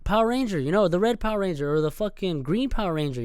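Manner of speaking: put-on a kid tugging at mom, pointing; excited little kid. Boy pointing out motorcycles to his mom, lightly excited. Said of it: "I'd be like".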